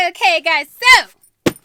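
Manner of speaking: loud, high upbeat intro; vlog intro. Acted. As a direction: burst into a bubbly opener.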